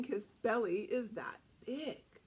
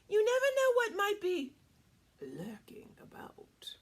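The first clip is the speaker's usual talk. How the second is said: sinister hush; 8 semitones higher, 4 dB louder than usual. A narrator's reading. Wolf warns Red Riding Hood.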